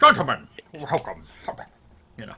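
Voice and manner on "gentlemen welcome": put-on very loud, booming voice with slight Scottish accent. Voicing a character greeting gentlemen: slight Sean Connery accent. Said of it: "kinda had a slightly Sean Connery accent".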